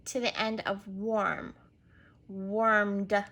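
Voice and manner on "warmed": "warmed" drawn out, then a distinct d on the end; warmed with D sound. Shown as a demonstration. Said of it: "Add a D sound".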